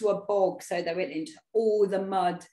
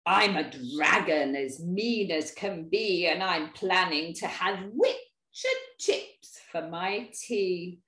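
lightly voiced dragon, low and slowing; mean dragon; 4 semitones lower than usual. Dragon planning to eat the witch, mildly mean dragon. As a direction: lower it into a hint of a menacing dragon.

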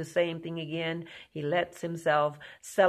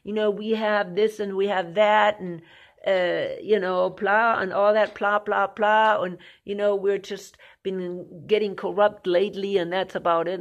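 high, louder protesting mock voice; mocking the naysayers; 3 semitones higher, 5 dB louder than usual. Preacher mocking people who defend the country, in a high loud mock protest. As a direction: parody a defensive patriot, raised and loud. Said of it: "Oh, people are gonna say".

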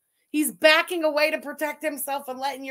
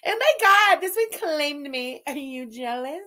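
mock gushing; 4 dB louder than usual. Mocking the woman in the clip.

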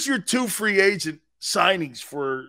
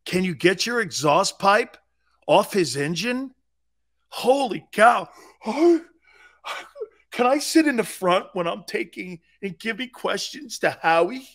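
mock reporter rant. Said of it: "I'd rip reporters all the time going".

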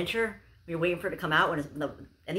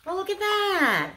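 delighted squeal; 14 semitones higher, 4 dB louder, slower than usual. Real, not acted. Gushing over a cute gift.

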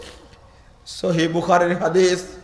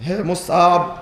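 tearful address; much slower than usual. Retold or imitated. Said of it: "চোখ দিয়ে টস টস করে পানি পড়ছে". (শোকভরা নিচু গলায় ডাক)

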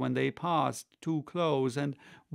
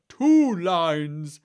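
loud, raised interjection; crying out; 4 semitones higher, 11 dB louder than usual. A narrator's reading. Mock Turtle correcting the Gryphon, crying out loudly. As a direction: call it out sharply over the other speaker. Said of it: "cried the Mock Turtle".

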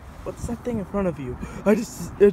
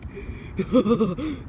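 short gloating chuckle; gloating laugh; 3 semitones higher than usual. Acted. Freed spirit mocks his old prison, gloating laugh. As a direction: laugh at having outsmarted someone. Gloating after escaping the capsule.

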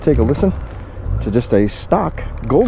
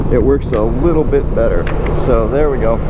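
muffled inside helmet; 2 semitones lower than usual. Real, not acted. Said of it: "too muffled".

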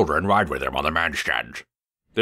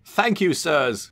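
happily whistled; 11 semitones higher, slower than usual. A narrator's reading. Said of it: "whistled Trevor happily".

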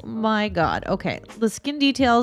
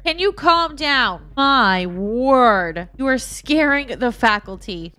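scolding call; 2 semitones higher, 4 dB louder than usual. Acted. Player scolding a panicking sim, louder. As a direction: tell the wild sim off.

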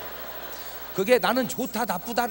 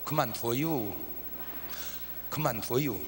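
soft standard Korean; 10 semitones lower, 9 dB quieter, slower than usual. Retold or imitated. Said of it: "그렇게 말하죠".

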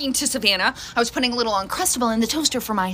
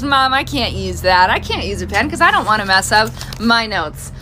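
whiny daughter; 3 semitones lower than usual. Retold or imitated. Mom imitating her daughter refusing the pen. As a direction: stretch the words like a put-out teen.

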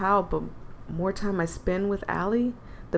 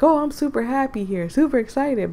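mock excited; 4 semitones higher than usual. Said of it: "five was the only one that was like".

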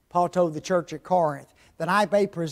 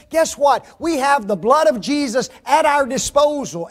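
raised, driving preacher's delivery; preach; 5 semitones higher, 7 dB louder than usual. Real, not acted. Preacher urging folks to walk in righteousness, raised preaching. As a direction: press it home to the congregation, louder and emphatic.

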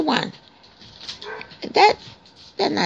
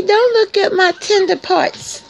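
puppy voice; 6 semitones higher than usual. Pretend. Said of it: "You say".

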